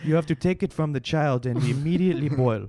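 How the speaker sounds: muddled, stilted mock French accent; botched French accent. TV chef instructing on a cruel recipe, botched French accent. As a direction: do a bad French accent, vaguely Armenian. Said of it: "That's not a French voice".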